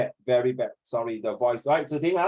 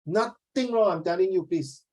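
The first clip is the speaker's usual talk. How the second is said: high sing-song insistence; 5 semitones higher than usual. Shown as a demonstration. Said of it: "The tonality".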